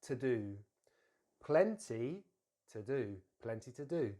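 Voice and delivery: "to do" said as "tuh-doo"; careful model, weak "to" joined to "do"; linked weak form. Shown as a demonstration. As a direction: link "to" into "do" for learners. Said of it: "link it to that do".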